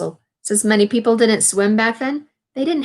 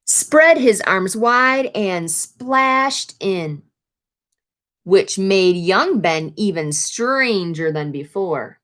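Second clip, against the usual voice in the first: storybook read-aloud, lively phrasing; picture-book narration; reading to children; slower than usual. A narrator's reading. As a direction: read the page to the class.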